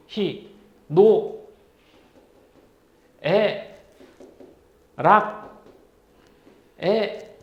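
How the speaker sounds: each syllable spaced apart, slowly; teacher spelling out a list syllable by syllable; slow enumeration. Shown as a demonstration. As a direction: count them off one by one with long pauses. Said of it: "다시 한번 설명해 줄까?".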